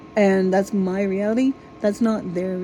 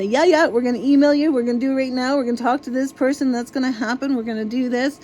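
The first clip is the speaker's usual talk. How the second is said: higher, overly eager customer-service promises; mock eager agent; 4 semitones higher, faster than usual. Ranting caller mimics a phone agent's empty promises, mock eager. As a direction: ham up an agent who promises everything. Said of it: "And they'll say".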